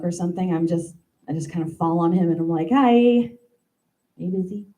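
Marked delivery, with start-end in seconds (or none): 2.7-4.7 coy ask. Pretend. Cat-like interruption.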